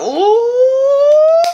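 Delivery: long, high, loud "ooh"; hammed-up onlooker's squeal; acted excited "ooh". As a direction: hoot a drawn-out high "ooh". Acted reaction to the screaming friend.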